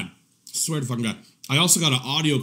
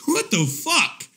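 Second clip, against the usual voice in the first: high, slow, stretched out; shocked disbelief; 12 semitones higher, slower than usual. Retold or imitated. Watching the naked stomach video, shocked and slow. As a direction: drag the words out in horror.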